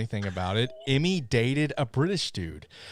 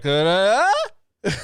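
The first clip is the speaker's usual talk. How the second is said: sing-song mock British lilt, higher and louder; teasing imitation of a bad British accent; mock British inflection; 7 semitones higher, 7 dB louder than usual. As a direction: mimic her British accent with a bouncy lilt. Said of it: "she does this inflection".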